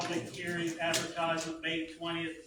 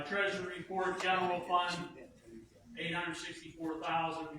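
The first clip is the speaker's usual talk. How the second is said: speaking up. Real, not acted. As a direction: repeat it clearly for the back row. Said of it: "Can you speak up, please?".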